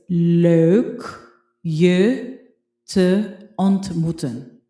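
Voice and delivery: leuk stretched slowly with a rising tune, sounded like lok; careful slow Dutch drill. Shown as a demonstration. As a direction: spell out leuk je te ontmoeten slowly for learners. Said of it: "So, it's".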